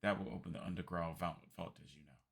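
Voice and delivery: lightly voiced gracious old man; a polite old gentleman, pleased; courtly old man. Old man greeting Lady Riddell, courtly.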